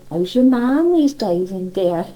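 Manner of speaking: lightly put-on Cornish, drawn out; colloquial Cornish. Neighbour at Polperro asking after her husband, lightly imitated Cornish. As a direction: slip slowly into homely Cornish dialect. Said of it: "slip back into your colloquial bits".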